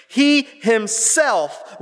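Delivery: He himself, slow and high with weight on each word; stress on HIMSELF. Shown as a demonstration. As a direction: punch "himself", stretching it out. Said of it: "it's emphatic".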